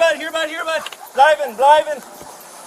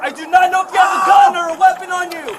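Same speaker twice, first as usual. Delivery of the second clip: shouting commands. Real, not acted. Officer yelling at suspect.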